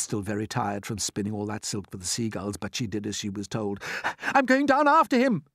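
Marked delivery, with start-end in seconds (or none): 4.3-5.4 high, loud determined cry. Acted. James announcing he'll jump after the centipede. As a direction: announce it boldly. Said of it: "cried James".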